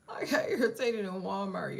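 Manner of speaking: laughing through the words. Real, not acted. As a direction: laugh it out, embarrassed.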